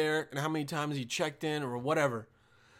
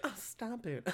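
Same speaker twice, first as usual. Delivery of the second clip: very soft, giggly brush-off; coy little laughing protest; flirty mock protest; 4 semitones higher, 12 dB quieter than usual. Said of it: "It's flirting".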